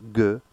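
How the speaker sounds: "G" said as a hard "guh"; isolated hard "guh" for "G". Shown as a demonstration. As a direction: sound out "G" as in gift. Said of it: "is always pronounced".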